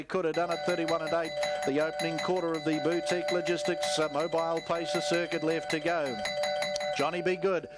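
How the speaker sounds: rapid live race commentary, rising with the finish; race call. Real, not acted. Race caller to the crowd, live play-by-play call.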